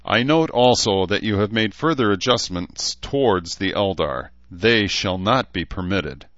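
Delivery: lightly voiced formal elf lord; a touch of lofty reproach, ignoring the jibe; stern elf.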